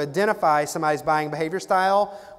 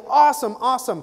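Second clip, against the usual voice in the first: upbeat salesman; 7 semitones higher than usual. Retold or imitated. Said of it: "He goes".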